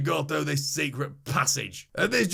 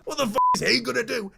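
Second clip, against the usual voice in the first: incredulous; 7 semitones higher, faster than usual. Real, not acted. Incredulous reaction to goblin.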